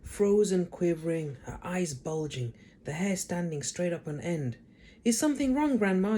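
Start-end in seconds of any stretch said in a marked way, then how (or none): 5.0-6.2 George asking politely. A narrator's reading. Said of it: "George asked her politely".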